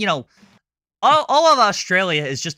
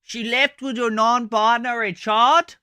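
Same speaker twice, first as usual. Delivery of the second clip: mock fake Southern accent; 8 semitones higher, 4 dB louder than usual. Mocking the clip's Rosie in a put-on Southern accent. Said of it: "an Australian trying to put on a Southern accent".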